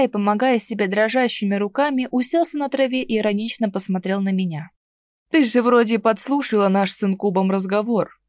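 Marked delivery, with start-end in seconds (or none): 5.3-8.2 язвительно. Acted. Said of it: "язвительно ответил он".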